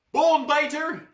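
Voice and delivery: high, loud war cry; battle yell. Acted. Boy hero yells his war cry running out the door. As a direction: charge out yelling it. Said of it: "he yells".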